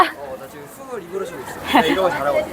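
talking with nose held shut; nasal voice from a pinched nose. Real, not acted. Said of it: "코 막고 말하려고 맹맹한 소리 나는 거야".

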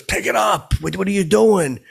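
high, loud mock yell; mock angry yell. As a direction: bark it like an angry boss. Angry customer yelling about mulch.

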